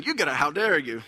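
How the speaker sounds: low-key imitation of a child's English accent; little English accent. Father quoting his son's phrase in his head, understated English accent. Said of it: "he says it in this little English accent".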